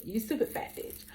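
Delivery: hushed, unvoiced repeat; whispered.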